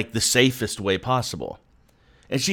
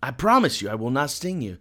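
scorpion's sly promise; 3 semitones higher than usual. Retold or imitated. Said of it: "the scorpion says to the frog".

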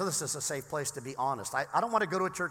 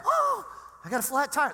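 mock whine; 10 semitones higher, 4 dB louder than usual. Mock complaint about a flat.

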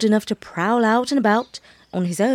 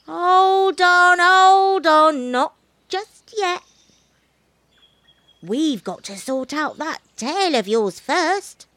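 monkey voice; 8 semitones higher, 3 dB louder, slower than usual. A narrator's reading.

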